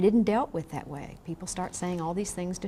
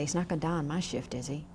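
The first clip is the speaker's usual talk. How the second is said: quick, softer, anxious little aside; mock worried nurse; 4 semitones lower, 5 dB quieter, faster than usual. Nurse to the teacher, a mild anxious hush. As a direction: imitate a nervous nurse hoping to dodge it.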